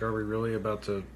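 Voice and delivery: low, muttered disbelief, lightly mocking; retold scoffing. Retelling the bride's reaction to hide and seek, lightly scoffing. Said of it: "she scoffs at first".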